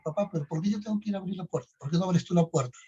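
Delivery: whiny protest. Retold or imitated. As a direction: act out a son's indignant complaint. Son's complaint acted out.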